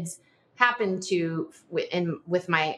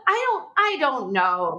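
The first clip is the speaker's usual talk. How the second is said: helpless laugh through the words; amused at herself, words broken by laughter; 8 semitones higher than usual. Real, not acted. Laughing after listener's question.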